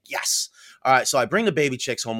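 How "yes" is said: whispered yes. Retold or imitated. Secretly thrilled at being picked.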